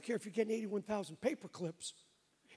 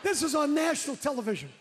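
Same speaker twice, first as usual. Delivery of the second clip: retold exclamation; 5 semitones higher, 5 dB louder than usual. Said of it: "I just went".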